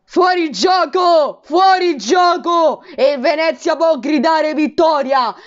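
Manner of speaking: high drawn-out Fuorigioco shout; slow, high call of Fuorigioco; excited shout. Real, not acted. Offside call live.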